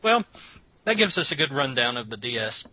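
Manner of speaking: talking through a mouthful of pizza; words pushed around a bite of pizza; mouth full. Real, not acted. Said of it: "I got a mouthful of pizza right now".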